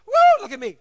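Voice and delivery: loud, high whoop of glee; showing off. Acted. A running donkey bragging to the tied one, loud whoop. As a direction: crow about yourself while running past.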